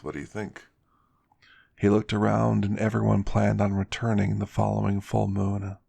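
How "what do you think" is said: soft secretive whisper. Acted. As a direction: lean in and whisper it. Brad asks quietly.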